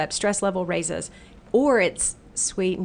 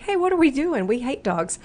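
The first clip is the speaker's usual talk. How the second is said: voicing the brain; 6 semitones higher than usual.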